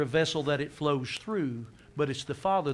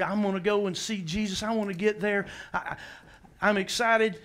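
eager, higher-pitched Martha; mildly acted eagerness, pitched up; excited and hurrying; 5 semitones higher than usual. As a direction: act out someone rushing to get there. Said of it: "she is in a hurry".

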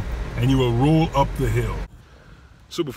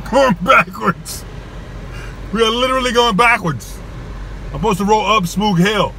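high, loud, holding back laughter; fighting off the giggles; stifled giggles; 7 semitones higher, 5 dB louder than usual. Real, not acted. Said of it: "I'm trying not to laugh".

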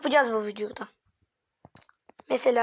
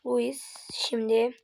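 whispering; 3 semitones lower, 5 dB quieter, much slower than usual. Acted. Tense moment in commentary.

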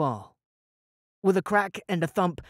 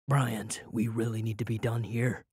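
weary; 6 semitones lower, 5 dB quieter than usual. Acted. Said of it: "Eric tired".

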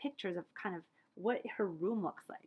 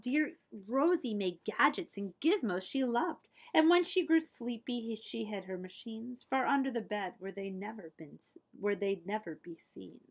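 put-on rhythmic read-aloud verse for children; story narration; 4 dB louder than usual. A narrator's reading. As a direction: read the rhyme to a child, lilting. Reading a picture book aloud.

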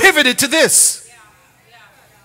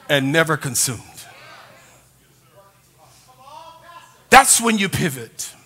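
hushed sermon; 7 semitones lower, 6 dB quieter than usual. Real, not acted. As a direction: drop the voice to draw them in. Preacher drops to intense quiet.

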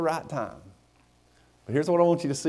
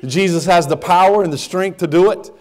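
full preaching; 2 semitones higher than usual. Acted. Pastor urging the church, in full preaching voice. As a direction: preach it home to the congregation.

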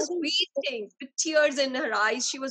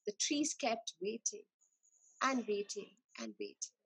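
hushed storytelling; 6 semitones lower, 10 dB quieter than usual. A narrator's reading. Sad waiting in story.

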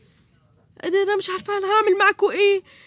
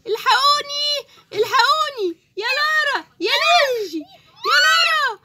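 put-on frightened calls for the kids; panicked cry for help; 4 semitones higher, slower than usual. Mother calling her kids in panic. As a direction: cry out for the children in fear.

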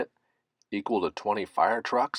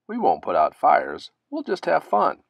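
excited; 8 semitones higher, 6 dB louder than usual. Acted. Friends' plan continues.

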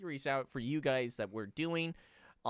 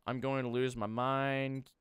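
exasperated, held just above usual pitch; mounting frustration; 4 dB louder than usual. Real, not acted. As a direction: frustration still held in check. Frustrated by the mess, first take.

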